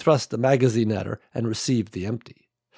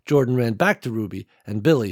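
ordinary delivery

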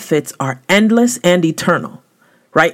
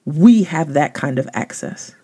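ordinary talk

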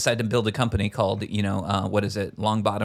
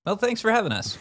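high-pitched; 11 semitones higher than usual. Acted. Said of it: "Was that subtle enough?".

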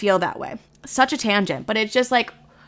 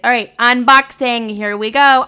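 louder, slow host intro; mock unboxing host; 3 semitones higher, 5 dB louder, slower than usual. Parodying unboxing video intros, slow louder host voice. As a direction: ham up a YouTuber opening. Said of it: "I'm never just gonna be like".

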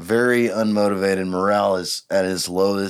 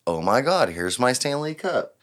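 AI voice. Retold or imitated. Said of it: "it's probably the A I voice".

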